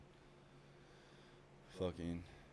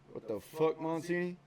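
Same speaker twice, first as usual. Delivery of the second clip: much higher, loud furious shout; drill instructor yell; 11 semitones higher, 7 dB louder than usual. Retold or imitated. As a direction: blow up at the recruit. Drill instructor catches missing socks.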